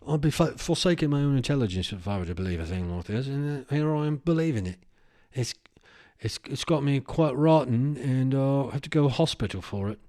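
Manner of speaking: put-on light British accent in the style of Idris Elba. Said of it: "read it like Idris Elba".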